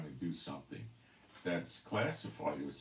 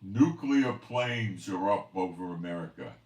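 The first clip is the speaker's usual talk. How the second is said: mock alarm broadcast; 7 dB louder than usual. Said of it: "listen to emergency action messages".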